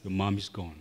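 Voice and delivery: low, soft retelling of grave news; hushed retold news. Grandma tells her grandson of his mother at the bedside, retold low and soft. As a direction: drop the voice low and soft to break it.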